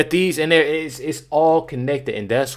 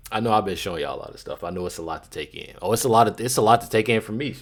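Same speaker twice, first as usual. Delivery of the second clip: words interrupted by hiccups; 2 semitones lower, 4 dB quieter, faster than usual. Real, not acted. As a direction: talk while hiccuping. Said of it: "I got the hiccups".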